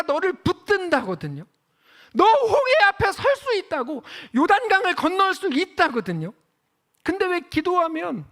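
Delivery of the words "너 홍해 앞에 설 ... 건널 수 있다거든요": high, loud ringing promise; proclaiming. Acted. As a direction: declare it to the congregation. (힘차게 선포하듯)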